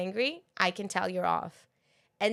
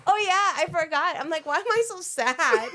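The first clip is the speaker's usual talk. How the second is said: mock whining; 9 semitones higher, 5 dB louder than usual. Acts out herself before period.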